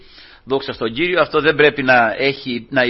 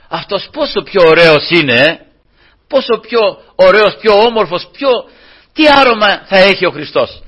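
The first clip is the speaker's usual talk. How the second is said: wondering sister; 4 semitones higher, 6 dB louder than usual. Retold or imitated. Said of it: "μια αδελφή, ας πούμε, λέει".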